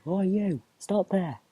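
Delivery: loud, high challenge from afar; shouting. Acted. Armed stranger halting travellers on the road, shouting. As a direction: shout to halt them in their tracks. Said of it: "you hear a voice from around the bend in the road shouting".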